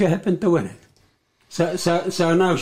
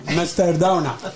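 breathy laugh through the words. Real, not acted. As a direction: giggle out the name. Laughing at Mister Donut nickname.

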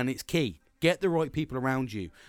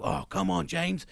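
imagined friend pushing James to run; pushy workout buddy; 5 semitones higher than usual. Pretend. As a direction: chivvy James off the couch. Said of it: "no one's gonna go".

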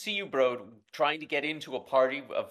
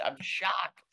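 whispered repeat; 8 semitones higher than usual. Real, not acted.

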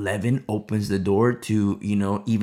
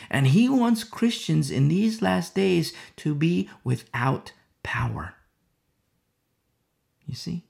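whispered warning; 4 semitones higher than usual. Acted. Preacher warning the church what Satan wants, whispered. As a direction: breathe it like a secret threat.

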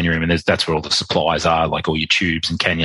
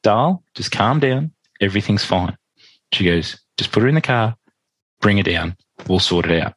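put-on Irish accent. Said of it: "try and do the Irish accent".

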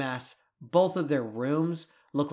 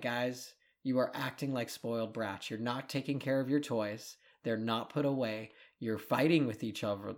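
calm lecture. Retold or imitated. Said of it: "you said it very calmly".

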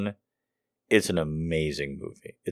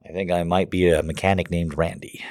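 whisper. Real, not acted. Dazed after laughing fit.

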